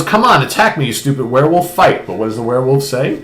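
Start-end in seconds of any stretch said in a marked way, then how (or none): 0.0-2.1 higher-pitched mock goading; taunting challenge. Hunter daring the werewolf to attack him, taunting. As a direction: goad it into a fight, hammed-up. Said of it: "antagonizing him and whatnot".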